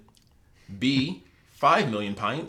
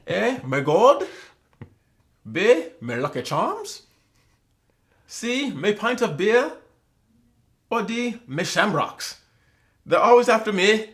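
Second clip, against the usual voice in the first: high, slow hammed-up Irish leprechaun; mock Irish accent; 7 semitones higher, 4 dB louder, slower than usual. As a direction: read the choices like a cartoon Irish leprechaun. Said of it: "when you do a bad Irish accent".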